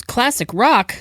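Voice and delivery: high-pitched, imitating an incredulous question; mock incredulous. Director hearing a student pitch classic rock, mock incredulous. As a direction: echo it back in mock disbelief.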